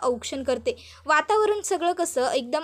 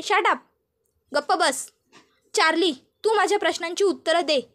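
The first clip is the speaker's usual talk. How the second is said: angry interrogation; 3 semitones higher than usual. Acted. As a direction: snap at him, demand answers. Gautami scolds and interrogates Charlie. (चिडून, उंच आवाजात दटावत विचारणे)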